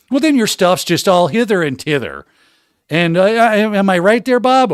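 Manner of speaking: a lightly put-on accent, lecturing as Stan; hammed-up accent for the class, rising at the end; mock lecturer accent. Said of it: "Please teach your next course in an accent".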